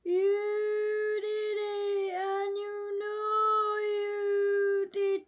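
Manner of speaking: slow, drawn-out spooky voice, barely acted; scary voice. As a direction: stretch each word out like a lightly spooky ghost. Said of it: "said the scary voice".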